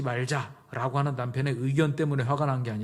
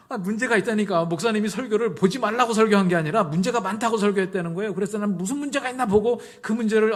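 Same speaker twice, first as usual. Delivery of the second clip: higher, louder insistent retort; heated self-justification; 7 semitones higher, 6 dB louder than usual. Retold or imitated. Wife defending her drama watching to the counsellor, heated insistence. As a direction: retell an indignant defence, pitched up and forceful.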